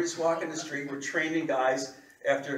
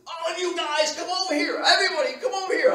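loud, high holler to a crowd; urgent, shouted call; 12 semitones higher, 7 dB louder than usual. Retold or imitated. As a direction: summon everybody from across the street. Beggar calling others over in story.

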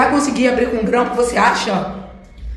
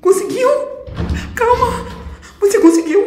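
higher, laughing in disbelief; nervous laughing; 5 semitones higher than usual. Real, not acted. Door opened, nervous laughter.

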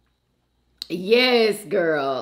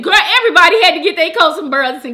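fast, loud laughing words; 9 semitones higher, 11 dB louder, much faster than usual. Real, not acted. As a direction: laugh it out quickly. Laughing recognition.

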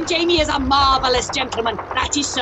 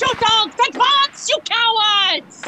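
scolding captain; 5 semitones higher than usual. Acted. Captain berating troops.

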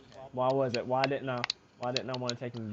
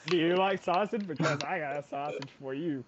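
sleazy pickup voice; 3 semitones higher than usual. Pretend. Continuing the sleazy pickup act.

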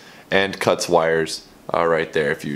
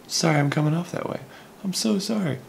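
much higher-pitched mock apology; insincere apology; 10 semitones higher, 4 dB quieter than usual. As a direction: put on a squeaky-high fake "sorry". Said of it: "I'm actually not sorry".

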